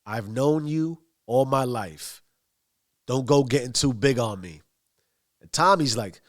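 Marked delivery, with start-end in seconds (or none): 0.1-4.6 mildly mocking, offhand and unhurried; nonchalant mocking. Bats needling Tommy over getting too big, nonchalant. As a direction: toss it off as a casual jab. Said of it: "ever so nonchalantly".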